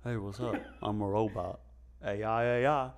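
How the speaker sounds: lightly put-on robot voice. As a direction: play a smooth talking robot. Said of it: "How again?".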